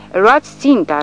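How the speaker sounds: put-on old sergeant to his squad, frantic roar. A narrator's reading. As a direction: roar it like a madman. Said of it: "răcnește el înnebunit".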